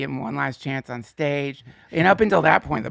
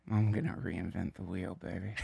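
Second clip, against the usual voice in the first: cocky stoner voice; 8 semitones lower, 12 dB quieter than usual. Retold or imitated. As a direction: play the smug college kid. Mocking his younger cocky self.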